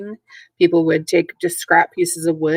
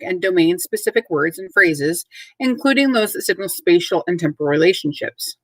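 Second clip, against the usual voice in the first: formal standard read. Acted. Reads out a standard.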